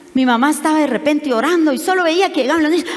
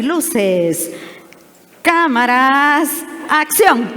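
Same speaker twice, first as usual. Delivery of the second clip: mock showbiz call; much slower than usual. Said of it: "¿Cómo es que hacen los jóvenes?".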